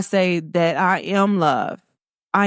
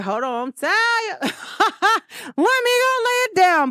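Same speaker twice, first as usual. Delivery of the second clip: mock tired whine; 12 semitones higher, slower than usual. Mock tired self-quote.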